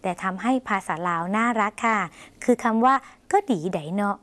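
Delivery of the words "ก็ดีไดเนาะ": ก็ดีไดเนาะ with the tone rising and falling, ending on a rise; Lao sing-song tones. Shown as a demonstration. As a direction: say ก็ดีไดเนาะ lilting up and down, Lao style. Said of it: "เสียงขึ้นเสียงลงนะคะ". (พูด ก็ดีไดเนาะ เสียงขึ้นลงแบบลาว)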